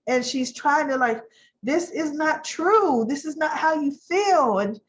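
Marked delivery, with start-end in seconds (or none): 1.6-4.6 lightly voiced hurt girlfriend insisting; a touch of tearful insistence, pitched up; mock pleading. Sally pleading with Adam, retold.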